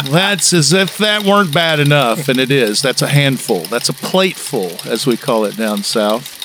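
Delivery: emphatic, deliberate humorous monologue delivery; folksy mock report. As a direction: deliver it like a down-home radio commentator. Continues the kudzu report.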